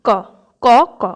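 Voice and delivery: tense double k sound for ক; doubled ক. Shown as a demonstration. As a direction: say ক as a tight doubled kk. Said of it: "কয় কয় একদম উচ্চারণ". (ক-এর জোড়া উচ্চারণ, ক্ক)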